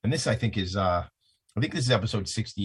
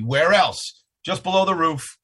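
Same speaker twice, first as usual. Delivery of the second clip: excited; 9 semitones higher, 6 dB louder, slower than usual. Real, not acted. Hyped host banter.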